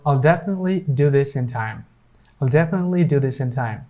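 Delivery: quick "definitely" with the T unreleased before "ly"; silent T. Shown as a demonstration. Teacher's example sentence with "definitely", silent T. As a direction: hold back the T in "definitely", moving briskly. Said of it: "this T here will be totally unpronounced".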